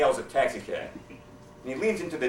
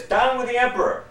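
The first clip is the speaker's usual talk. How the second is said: yell; 12 semitones higher, 7 dB louder than usual. Acted. Sharpshooter yelling into the cave, high and loud. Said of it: "go to the mouth of the cave and yell".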